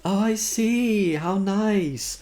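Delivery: cloying charity lady; sickeningly sweet. A narrator's reading. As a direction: drip with syrup. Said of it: "She smiled sickeningly".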